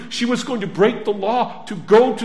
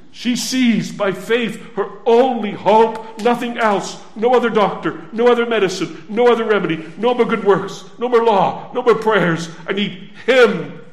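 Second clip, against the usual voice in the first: pounding list of no mores; rising preaching; 3 dB louder than usual. Acted. Preacher listing every lost remedy to the congregation, pounding. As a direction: strike each no more harder.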